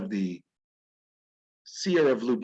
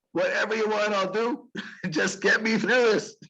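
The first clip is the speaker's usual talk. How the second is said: desperate plea; 7 semitones higher than usual. Retold or imitated. Eve in labour begs God.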